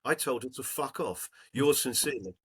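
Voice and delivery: lightly voiced old lady's letter, read aloud; reading an old woman's thank-you note to the group.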